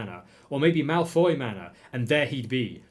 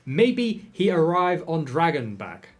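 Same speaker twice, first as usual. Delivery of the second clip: lightly voiced Scottish mayor; 4 semitones higher, 3 dB louder, slower than usual.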